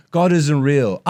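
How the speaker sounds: slow, badly faked British accent; Ricky Gervais. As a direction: draw it out as a mock British comic. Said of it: "playing as Ricky Gervais".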